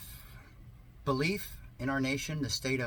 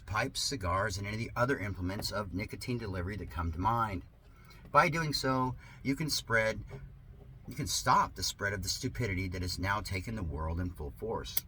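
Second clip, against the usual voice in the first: sarcastic reading. Acted. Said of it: "Yes, this is sarcasm".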